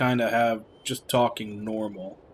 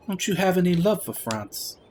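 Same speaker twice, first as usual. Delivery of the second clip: earnest game character; 5 semitones higher than usual. Acted. Another character challenges the Frenchman.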